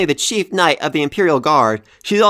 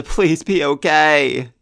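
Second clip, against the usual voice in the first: slow, drawn-out heartfelt plea; a real plea that he survives; slow pleading; much slower than usual. Real, not acted.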